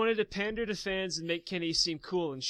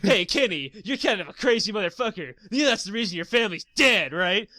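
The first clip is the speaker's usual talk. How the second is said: laughing mock taunt; 6 dB louder than usual. Mocking Lily taunting Kenny.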